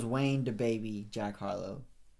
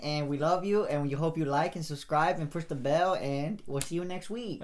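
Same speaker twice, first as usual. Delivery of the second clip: put-on hosting the outro in a light Canadian accent; lightly put-on Canadian podcast sign-off; mock Canadian outro. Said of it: "do the outro with the accent".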